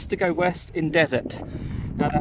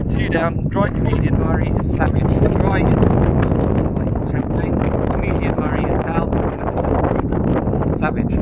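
raised voice against the wind; shouting over wind; 5 dB louder than usual. Real, not acted. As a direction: push the voice over the gusts. Explaining clue in strong wind.

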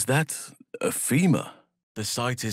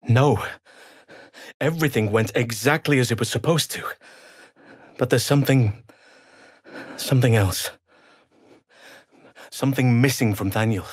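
emphatic; 2 semitones higher, 5 dB louder, faster than usual. Acted. Distressed emphatic denial.

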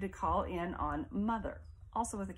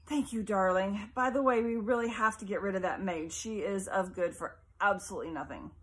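haughty mother; 4 dB louder than usual. Acted. Mother complaining to her son about the maid, haughty. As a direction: dismiss the maid with disdain.

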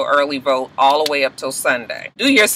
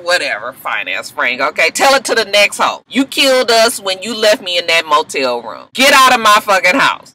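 sneering brush-off rising to a yell; dismissive Bonnie; 2 semitones higher than usual. Retold or imitated. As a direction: wave him off, then order him out. Bonnie throwing Frank out.

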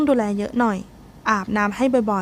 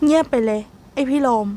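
put-on sulky younger boy; 2 semitones higher than usual. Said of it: "ไอ้จ๊ะจะหลุดคำหยาบ".

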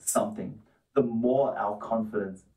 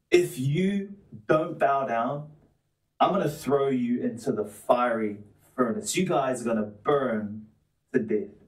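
threatening king. Retold or imitated. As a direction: lay down a king's ultimatum, mildly menacing. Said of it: "then he threatens their life".

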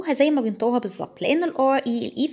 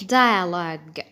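British accent; 5 semitones lower, much slower than usual. Shown as a demonstration. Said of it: "ده British وده American".

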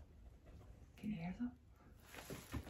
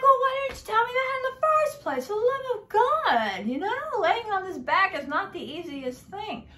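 shrill-high exasperated retort, much higher and louder; 12 semitones higher, 5 dB louder than usual. Retold or imitated. To the doctor who made her lie down, high exasperated complaint. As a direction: squeal it out, fed up and indignant. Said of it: "I'm like".

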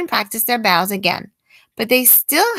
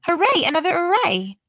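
cheering; 7 semitones higher than usual. Acted. Teacher cheering again.

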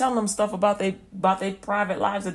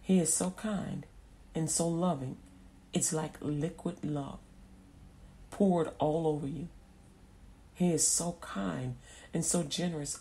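tender awe; 2 semitones lower, 6 dB quieter than usual. Retold or imitated. Someone recalling meeting Jesus, tender awe. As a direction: let it out softly, in reverent wonder.

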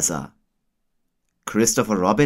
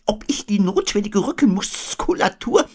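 Eule; 12 semitones higher than usual. A narrator's reading.

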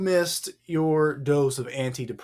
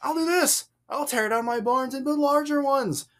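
high-pitched, exaggerated emphasis; emphatic mockery; 6 semitones higher than usual. Shown as a demonstration. Showing the emphasis the paper hides, mocking the fool. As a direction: play up the fool's self-satisfied resolve. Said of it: "You just can't hear the emphasis".

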